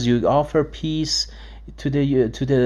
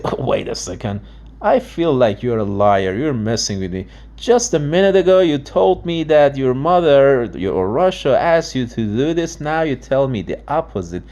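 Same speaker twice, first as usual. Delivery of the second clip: suspicious listener; 5 dB louder than usual. Retold or imitated. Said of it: "Because they say".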